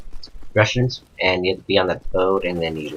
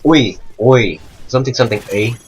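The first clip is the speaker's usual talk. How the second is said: imitating Canadian accent; 2 semitones higher, 4 dB louder than usual. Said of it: "so bad Canadian accents".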